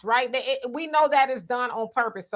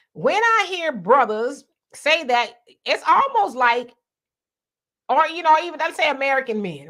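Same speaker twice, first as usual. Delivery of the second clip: heated, raised voice; 4 semitones higher, 4 dB louder than usual. Real, not acted. Host challenging men who date overseas, heated. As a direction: build up the argument.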